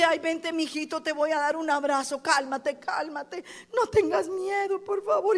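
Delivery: a hint of tearful babying; mock pleading comfort. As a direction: overdo the babying, near crying. Mock coddling Eliseo never said.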